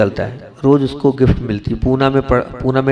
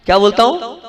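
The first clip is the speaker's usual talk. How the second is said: क्या बोलता हूँ asked higher, rising on हूँ; raised prompting question; 5 semitones higher than usual. Shown as a demonstration. Monk presses the audience to answer, higher with a rising end. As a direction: push the crowd to answer, pitch up at हूँ.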